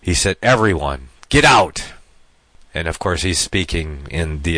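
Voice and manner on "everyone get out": sudden loud shout on get out; crying out. Retold or imitated. Joseph shouting at everyone to leave, loud. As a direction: bark the order to clear the room. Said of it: "So he cried out".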